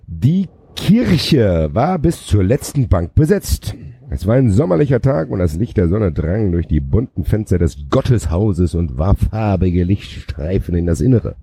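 grand, drawn-out chapter opening; slow, theatrical novel reading; dramatic story narration. A narrator's reading. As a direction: open the chapter with savoured phrases. Reads the new chapter aloud.

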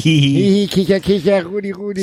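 high, mock tittering giggle; stifled giggles. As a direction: giggle like Rudi, hammed up. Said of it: "Rudi kicherte leise".

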